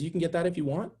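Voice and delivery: the weak way to offer it, ending on a rise; weak rising ask. Shown as a demonstration. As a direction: ask it tentatively, voice lifting up.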